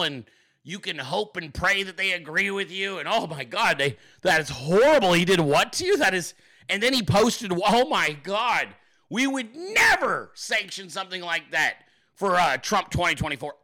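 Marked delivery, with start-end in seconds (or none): 3.1-12.4 lightly acted scandalized reaction; a touch of hammed-up outrage; mock horrified sympathy. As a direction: imitate someone feigning shock at the news.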